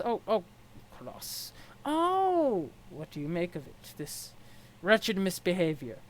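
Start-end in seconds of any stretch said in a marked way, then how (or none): 1.0-1.5 breathy whisper. Acted. Echoes the word in a whisper. 1.9-2.7 sudden high gasp of realisation; surprised. Acted.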